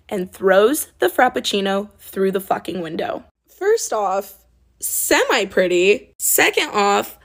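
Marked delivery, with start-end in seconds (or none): 3.5-7.2 defiant. Real, not acted. Defiant comeback to insult.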